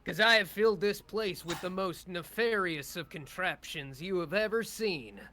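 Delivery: loud gloating villain taunt; booming echoing villain monologue. Acted. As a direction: boom it out like a hologram villain. GM voicing villain Feastwood.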